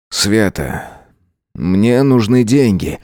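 grudging, slowed ask for money; reluctant. Acted. Boyfriend asks Sveta for money, reluctantly. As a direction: drag the words out unwillingly. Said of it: "произнёс он нехотя".

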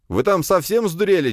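loud, high angry yell; angry shout. A narrator's reading. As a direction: scold them loudly. (гневный крик)

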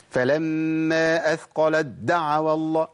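أثقلت دعوا with excessive force on the د, slow; over-pressed. Shown as a demonstration. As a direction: press the د of دعوا too hard. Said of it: "ما أعملش".

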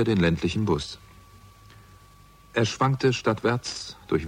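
calm, even narrator's read; story narration. A narrator's reading. Detective narrating his bus ride to the pub. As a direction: tell the story looking back, unhurried. First-person narration between scenes.

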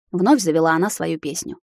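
ordinary delivery, nothing marked

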